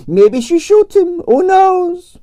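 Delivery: put-on high, theatrical Russian accent with drawn-out vowels; grand Russian ballerina complaining about her night; Russian prima ballerina. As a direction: play the dramatic Russian diva. Arienskaya held voice.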